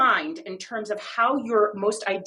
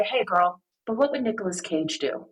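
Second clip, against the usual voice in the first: modulated gentle tone; 2 semitones lower than usual. Retold or imitated. Host soothing her upset girlfriend at brunch, gently. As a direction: ease in gently to comfort a friend. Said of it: "a little bit more of a modulated tone of voice".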